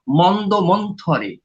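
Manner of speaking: মন্দ মন্থরে said slowly, each syllable clear; slow down and spell out মন্দ মন্থরে; careful pronunciation. Shown as a demonstration. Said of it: "ভাষাতাত্ত্বিকভাবে মন্দ, মন্দ মন্থরে বলতে হবে".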